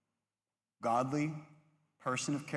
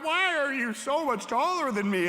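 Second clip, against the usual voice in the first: much higher, louder, whiny; high squeaky reply; 10 semitones higher, 5 dB louder than usual. Retold or imitated. Short boy answering the tall girl, high squeak. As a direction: squeak it like a small kid.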